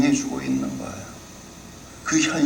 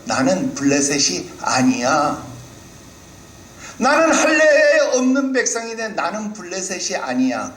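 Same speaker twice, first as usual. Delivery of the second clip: Goliath's taunt; 5 semitones higher than usual. Retold or imitated. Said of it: "골리앗이 뭐라고 말합니까".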